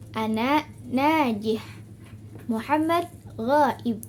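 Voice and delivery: "ana najih", "Muhammad ghaib" slow, rising then falling; two-three-one statement intonation. Shown as a demonstration. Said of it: "ada baris dua".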